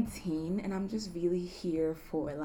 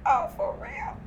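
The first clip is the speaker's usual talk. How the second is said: mock surprised squeal. Reacting to a fan's compliment.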